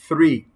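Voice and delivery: "Three" opened with a clear th sound; THREE with Spanish Z. Shown as a demonstration. Teacher repeats the number for learners, careful th in Three. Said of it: "Z española".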